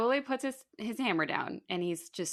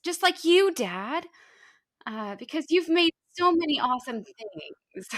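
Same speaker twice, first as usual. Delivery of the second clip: put-on higher, pleading kid voice, jumping high on just like you; groveling son; 4 semitones higher than usual. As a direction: beg like a kid sucking up to dad. Aule grovels to his father.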